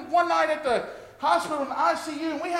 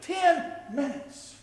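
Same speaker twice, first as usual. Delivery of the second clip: slow gentle plea; 3 semitones higher, 4 dB quieter, slower than usual. Retold or imitated. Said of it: "the Lord said".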